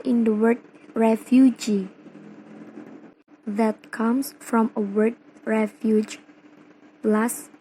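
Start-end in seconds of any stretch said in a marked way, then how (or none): 1.0-1.9 "refugee" with the weight on its last syllable, "gee"; stress on final GEE. Shown as a demonstration. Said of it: "primary stressnya pindah ke suffix, yaitu G". 5.5-6.2 "refuge" with the weight on opening "ref"; stress on first syllable REF. Shown as a demonstration. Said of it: "primary stress in the first syllable".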